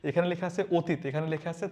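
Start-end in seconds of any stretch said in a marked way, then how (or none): 0.8-1.0 "অতীত" opening on a closed o; everyday "অতীত" with rounded first vowel; spoken o-sound. Shown as a demonstration. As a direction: say "অতীত" as o-teet. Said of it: "but আমরা কি বলি?".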